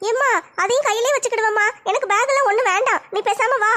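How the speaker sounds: lightly voiced teenage daughter; a hint of a shy college girl talking to her mother; young daughter. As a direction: modest daughter, lightly played. Daughter declines again.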